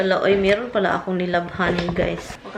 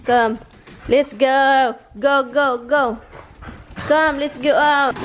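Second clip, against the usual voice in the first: louder, urging call; brisk rallying call, voice raised; 3 semitones higher, 4 dB louder than usual. Real, not acted. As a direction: call them to come along. Calling Auris to come out.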